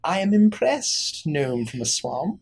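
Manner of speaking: high, slow, exaggerated approval; mock-impressed fey lady. Fey lady mock-praising the swamp gnome, high and slow. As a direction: lay the praise on thick.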